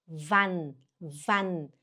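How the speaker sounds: "Wann" short, ending on a clear n; isolated model "Wann" with sounded n; N-sound demo. Shown as a demonstration. Teacher shows learners the N sound, careful "Wann". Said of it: "explicar pra vocês o som do N".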